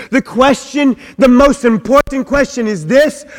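full-voiced pulpit preaching, rising and driving. Preacher driving home his point to the church, full force. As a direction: preach it out to the congregation.

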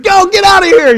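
loud, high shooing shout; mock dismissive yell. Boyfriend shooing away bleeding girlfriend, mock yelling. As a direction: send them off loudly.

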